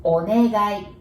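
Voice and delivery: teacher models Onegai for students; clear demo. Shown as a demonstration. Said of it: "to make it politer".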